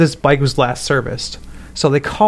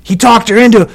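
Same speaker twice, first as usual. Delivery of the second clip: smoker's rasp; 8 semitones higher than usual. Retold or imitated. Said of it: "he talked just like that old-ass ninety-two-year-old man".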